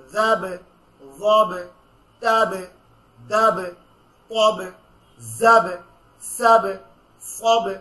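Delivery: each syllable ending in a hard bounced stop, loud; qalqala drill. Shown as a demonstration. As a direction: bounce the final consonant on every syllable. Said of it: "আপনারা আমার সাথে বলেন".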